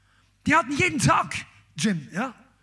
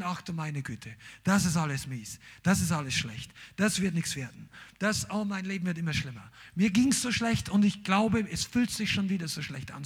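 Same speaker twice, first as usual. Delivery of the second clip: mock moaning; 5 semitones lower, 4 dB quieter than usual. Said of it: "fängst nicht mehr an zu reden".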